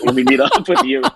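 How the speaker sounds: high, laughing mock girl's voice; imitating a girl. Girls he meets, imagined, laughing high mock voice. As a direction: squeak it out through a laugh. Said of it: "Maybe they're like".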